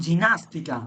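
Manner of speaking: slow জিনাস্তিকা with J; soft G as J. Shown as a demonstration. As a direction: spell out জিনাস্তিকা slowly with J. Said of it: "জি এর পরে যখন এ অথবা ই".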